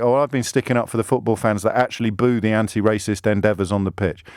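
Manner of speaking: a hint of another person's voice; lightly voiced defender. Imagined football defender answering a question.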